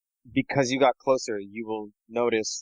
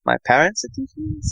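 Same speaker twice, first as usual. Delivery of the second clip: shocked question; 13 semitones higher, 5 dB louder than usual. Acted. Player voices shocked character.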